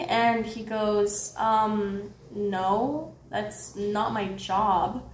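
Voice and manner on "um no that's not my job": lower, slow, indifferent brush-off; dismissive guard. Retold or imitated. Security guard brushing off worried customers, dismissive. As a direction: slowly dismiss them in a low voice.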